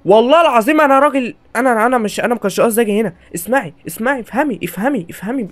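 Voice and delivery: high, rushed begging to the granny; panicked pleading. Real, not acted. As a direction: plead with her, frightened.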